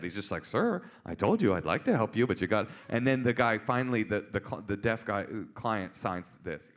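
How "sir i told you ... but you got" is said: measured official patience; unruffled cop. Retold or imitated. Cop repeating himself to angry caller, unruffled firmness. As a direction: keep it polite and firm. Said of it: "he's not even a little upset".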